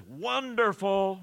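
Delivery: high, long-drawn "Wonderful"; choral crescendo. Retold or imitated. Preacher recalling Handel's Messiah for the congregation, imitating the crescendo. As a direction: imitate a choir swelling on one word. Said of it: "this crescendo says".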